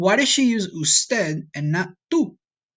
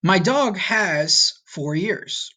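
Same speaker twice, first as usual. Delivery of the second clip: slow literal translation; 3 semitones higher, much slower than usual. Shown as a demonstration. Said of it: "Or in English, you would say".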